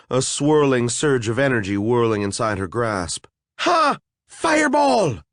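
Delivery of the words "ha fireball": much higher, louder triumphant cry; gleeful shout. Acted. A fairy casting a fireball, gleeful shriek. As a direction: shriek the spell with glee. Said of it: "She laughed".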